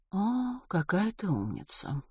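quiet, drawn-out admiring sigh; wistful. A narrator's reading. Miss Vera praising Ruth for driving, wistfully. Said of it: "Любую фразу она произносила с тоской".

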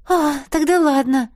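relieved exhale. A narrator's reading. Савина relieved it is only a mistake, relieved sigh. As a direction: let the worry go on the breath. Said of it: "С видимым облегчением выдохнула Савина".

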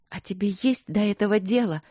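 spat out. Acted. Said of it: "выплюнула она".

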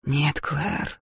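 gently. Acted. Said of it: "нежно сказал он".

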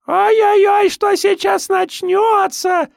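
put-on very high, slow squeaky baby-monster voice; squeaky shrill squeal. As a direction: squeal gleefully like a freakish baby. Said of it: "песклявым голосом заверещал артист". (писклявое верещание)

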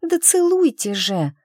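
urgent demand. Acted. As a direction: insist right now. Milasha demands a kiss. (нетерпеливо и громко)

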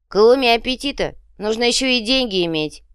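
preachy. A narrator's reading. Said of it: "наставительно сообщил Копыто".

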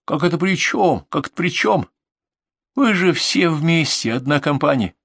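high-pitched, indignant scolding; angry outburst. Acted. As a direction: lay into him with mounting disgust. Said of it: "От злости у меня сорвался голос". (злобно, срываясь на высокий голос)

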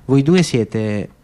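calm, each word chosen with care; steady and unhurried, a lightly voiced old woman; calmly. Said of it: "e poi disse con calma".

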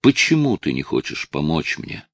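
ordinary delivery

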